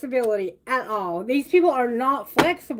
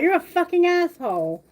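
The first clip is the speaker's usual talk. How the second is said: a higher, fed-up jab; mock insult; 5 semitones higher than usual. You, sick of constant texts, mock insult. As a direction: spit the insult at the nagging person. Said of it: "You're like".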